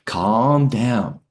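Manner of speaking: firm soothing. Retold or imitated. Sergeant soothing panicked soldier.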